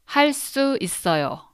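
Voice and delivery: 할 수 있어요 said high and quick, stressing the final 요; formal model pronunciation. Shown as a demonstration. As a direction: say 할 수 있어요 with a clear added 요. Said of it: "So it would be like this".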